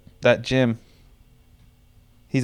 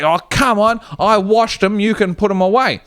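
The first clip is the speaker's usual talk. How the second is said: put-on high fussy old-man voice; pointed and prim; Jeff; 8 semitones higher than usual. Jeff telling James about the text, high and prim. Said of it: "he's like".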